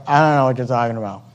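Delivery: low, soft, fast mumbled excuse; sheepish Job. Retold or imitated. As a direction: play dumb like a caught kid, low and quick. Job's comic reply to God.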